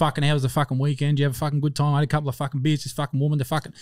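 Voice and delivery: lightly imitated sweary Aussie small talk; a hint of a casual Australian mate; Australian bloke. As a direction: rattle it off like blokes chatting, slightly underplayed. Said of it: "That's how Australian men talk to each other".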